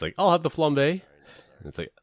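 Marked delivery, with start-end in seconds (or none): 0.2-1.0 much higher, louder hammed-up diner; customer ordering. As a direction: play the oblivious late orderer. Diner ordering at dinner's end.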